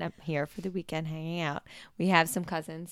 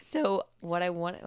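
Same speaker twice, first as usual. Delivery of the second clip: voice crack; 4 dB louder than usual. Real, not acted. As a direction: voice cracking mid-phrase. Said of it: "I just had a voice crack".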